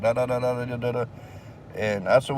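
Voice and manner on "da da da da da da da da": mock babbling. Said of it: "just babbling out their mouth".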